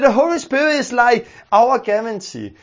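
usual speaking voice

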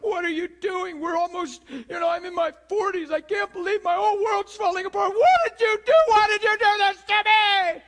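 preacher acting out a shattered spouse, rising to a yell; betrayed spouse falling apart. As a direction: let the disbelief swell into a full outcry. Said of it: "our natural reaction is".

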